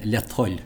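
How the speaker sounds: "le Hull" run together with a t, "let-hull"; Munster form. Shown as a demonstration. Teacher showing Munster Irish, "le Hull" as let-hull. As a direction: join "le Hull" as let plus hull. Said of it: "in Munster, we preserve the old Irish form".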